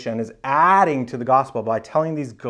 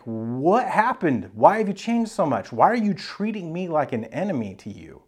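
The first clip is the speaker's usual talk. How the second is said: hurt, higher-pitched questioning; bewildered appeal; 4 semitones higher than usual. Retold or imitated. Paul asks Galatians why they turned on him, bewildered appeal. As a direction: plead to know what changed. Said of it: "But now he's like".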